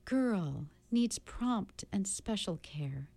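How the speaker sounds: a lightly voiced kind beast explaining gently; gentle beast.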